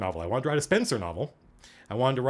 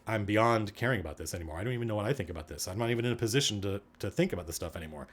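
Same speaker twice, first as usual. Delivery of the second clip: world-weary; 3 semitones lower, 4 dB quieter than usual. Retold or imitated. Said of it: "that kind of world-weary".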